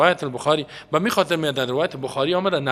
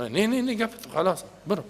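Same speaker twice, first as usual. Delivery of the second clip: mock harsh dismissal; 8 semitones higher than usual. Acting a harsh dismissive zealot.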